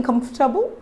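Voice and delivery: "comfortable" as KUMF-tuh-bul; "comfortable" in three syllables; silent O. Shown as a demonstration. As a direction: drop the O in "comfortable". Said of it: "stop pronouncing the letter".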